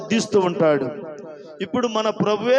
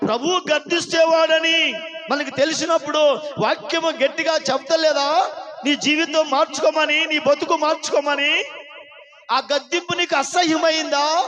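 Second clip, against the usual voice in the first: fervent preaching shout; 3 semitones higher than usual. Real, not acted. Preacher urging the congregation to say amen, fervent shout. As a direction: raise the voice to a ringing exhortation.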